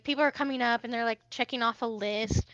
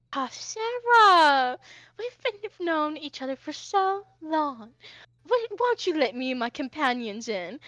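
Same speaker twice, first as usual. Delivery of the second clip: flamboyant Hoshi, wheedling; 4 semitones higher than usual. Acted. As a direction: coax an old acquaintance with grand, stretched words.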